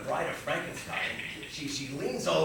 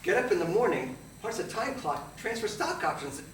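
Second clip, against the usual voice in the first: higher, urgent recital of a routine; mounting frenzy; 6 semitones higher, 5 dB louder than usual. Acted. Broker reliving the daily Wall Street routine, increasingly worked up. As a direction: rattle off the routine with rising excitement. Same routine, third time, more frantic.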